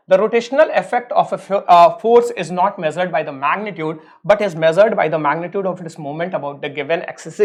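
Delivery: each word spaced out slowly for note taking; slow dictation. Acted. Teacher dictating a definition to his students, very slow and spaced. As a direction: read it out very slowly so they can write.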